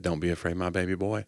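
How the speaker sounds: soft, tender fatherly reassurance; gentle praying father. Acted. Friend imitating a father comforting his son, tender. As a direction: soothe softly, playing a gentle dad. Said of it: "you know, real quietly".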